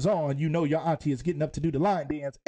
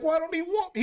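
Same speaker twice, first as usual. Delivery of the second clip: high pleading quote; quoting Will; 11 semitones higher than usual. Retold or imitated. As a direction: plead like a hurt son, pitched up. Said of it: "he was like".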